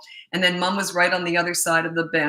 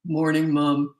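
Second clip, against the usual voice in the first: a touch lower, flat grown-up reply; teen son answering mom, lower; teen son's lower voice; 3 semitones lower, slower than usual. Retold or imitated. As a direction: answer like a teen whose voice broke. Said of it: "his voice had dropped".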